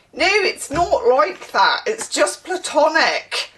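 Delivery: high, loud, drawn-out denial; mock protesting schoolkid. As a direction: mimic a teenager protesting too much. Acts out defensive schoolkid denying a crush.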